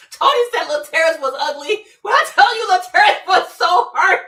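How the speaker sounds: high loud laughing through words; can barely get it out for laughing; laughing hard. Real, not acted. Streamer cracking up over Tony's insult, laughing loudly.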